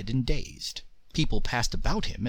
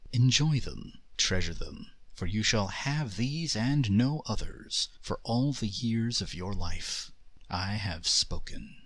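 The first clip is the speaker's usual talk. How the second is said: genie voice; 4 dB quieter than usual. Acted. The Jinn's soft pronouncement.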